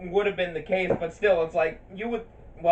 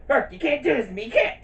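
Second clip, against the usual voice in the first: rising high protest; desperate shout; 8 semitones higher, 3 dB louder than usual. Retold or imitated. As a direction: plead louder and higher. Quoting Hades' outburst.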